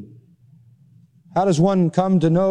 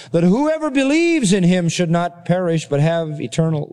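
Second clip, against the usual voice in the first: raised, sustained scripture recitation; higher-pitched reading that settles toward the end; 4 semitones higher than usual. Acted. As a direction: read the verses out to a congregation. Reads scripture aloud to congregation.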